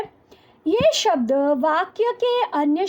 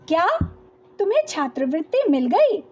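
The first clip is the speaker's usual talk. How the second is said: admiring question; faster than usual. Shown as a demonstration. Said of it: "अगर क्या को हम प्रशंसा सूचक शब्द के रूप में".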